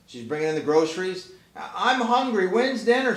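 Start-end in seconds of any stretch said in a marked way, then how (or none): 1.6-3.2 put-on high whining child complaint; whiny cat kid. Cat kid whining while mom carries groceries, high whine. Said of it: "says the cat".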